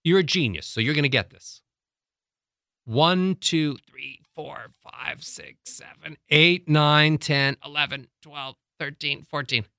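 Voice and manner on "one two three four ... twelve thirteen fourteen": counting on held breath, straining; holding breath. Shown as a demonstration. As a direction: count aloud without breathing out. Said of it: "You tell me when you think I'm holding my breath".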